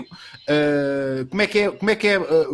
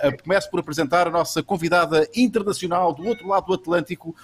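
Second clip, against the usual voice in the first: ordinary talk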